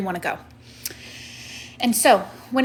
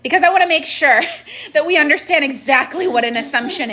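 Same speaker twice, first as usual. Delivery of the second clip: loud sharp voice; 5 semitones higher, 3 dB louder than usual. Real, not acted. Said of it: "Why are you yelling?".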